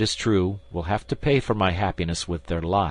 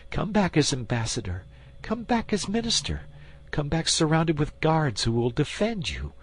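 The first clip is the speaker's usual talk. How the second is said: very high, pleading queen begging him to go; desperate queen imploring; 9 semitones higher than usual. Acted. Queen begs the duke to depart, high and pleading.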